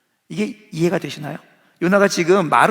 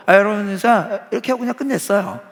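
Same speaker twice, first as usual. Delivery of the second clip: careless preaching; 4 semitones higher, 3 dB louder than usual. Retold or imitated. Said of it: "대충 전합니다".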